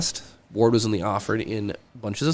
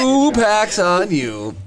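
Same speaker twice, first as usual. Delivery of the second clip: loud call; 10 semitones higher, 5 dB louder, much slower than usual. Real, not acted. Calls out during game.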